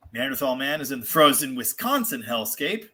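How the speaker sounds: ordinary talk, nothing marked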